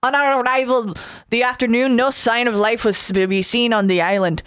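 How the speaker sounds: put-on a light Scottish-Irish accent on a report. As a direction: read it with a drifting Scottish-Irish lilt. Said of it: "I'm kinda flipping between Scottish and Irish".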